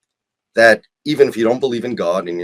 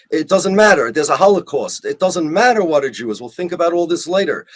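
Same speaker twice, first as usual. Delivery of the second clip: higher-pitched, brushing it all aside; mock dismissiveness; 4 semitones higher than usual. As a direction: imitate someone waving the question away. Voicing the Zionists' dismissive reasoning.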